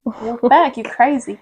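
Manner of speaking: testing a shaky-memory Aussie accent; attempted Australian accent. Shown as a demonstration. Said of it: "think of their accent".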